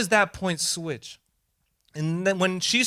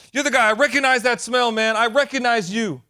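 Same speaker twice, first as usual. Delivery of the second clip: voicing Jesus; 5 semitones higher, 4 dB louder than usual. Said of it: "Be recognized like that".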